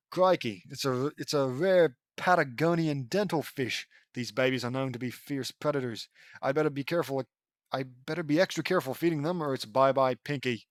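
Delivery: put-on hammy Australian nature-host accent; Australian wildlife explorer. Lincoln presenting a rare fish, Australian explorer accent. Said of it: "pretending to be an Australian wildlife explorer".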